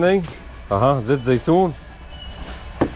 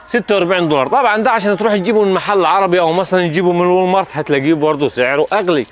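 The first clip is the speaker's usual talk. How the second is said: excited; 6 semitones higher than usual. Real, not acted. Excited pitch, raised throughout.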